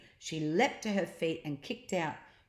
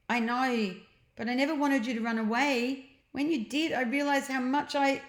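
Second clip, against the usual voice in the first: higher, relieved sister; Jemima, relieved; 7 semitones higher, 4 dB louder than usual. A narrator's reading. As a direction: glad to find him. Jemima voiced.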